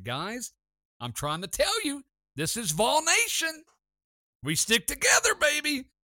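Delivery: high, loud rallying shout; building to a full shout of team pride; hyped-up shout. Retold or imitated. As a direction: fire up the crew like a cheerleader. Hyping up his friends.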